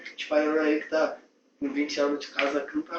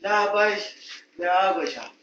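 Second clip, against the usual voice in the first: drawn-out bossy call; 3 semitones higher, 5 dB louder, slower than usual. Acted. Boss calling for water again.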